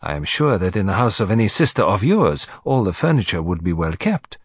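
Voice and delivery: lightly voiced courtly detective; Hercule Poirot, gallant. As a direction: pay a gracious, formal compliment.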